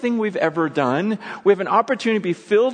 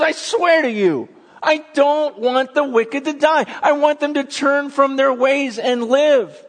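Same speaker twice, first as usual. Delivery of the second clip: higher and louder, an urgent voice of God; God swearing to his people, loud and high; God pleading; 8 semitones higher, 5 dB louder than usual. Retold or imitated. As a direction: speak as God, insisting passionately. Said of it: "He goes".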